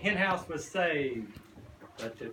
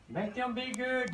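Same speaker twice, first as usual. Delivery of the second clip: grumbling farmer voice; 7 semitones higher than usual. Acted. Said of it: "grumbled the farmer".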